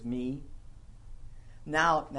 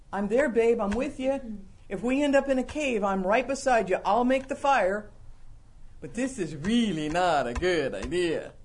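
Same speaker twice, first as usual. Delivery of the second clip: loving wife voice; 3 semitones higher, 3 dB louder than usual. Retold or imitated.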